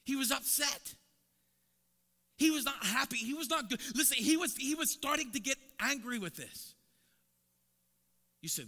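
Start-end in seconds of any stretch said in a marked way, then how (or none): 0.0-6.7 loud, high preaching build; full-force preaching. Acted. Preacher building fire for the congregation, loud high preaching. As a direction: preach it out, pressing harder.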